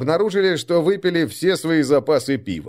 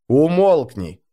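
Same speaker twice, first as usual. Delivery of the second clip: stern; 4 semitones higher, 4 dB louder, slower than usual. Acted. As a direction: cut him off sternly. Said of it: "сурово оборвал Арнгрим".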